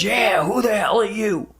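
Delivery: lightly voiced grouchy old woman; mock grudging old woman. Old woman finally admits her name, mild mock grumble. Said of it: "And she goes".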